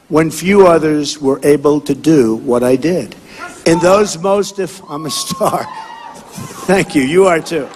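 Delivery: forceful rally oratory to a crowd; rally speech. Acted. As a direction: campaign speech, punchy and declaiming.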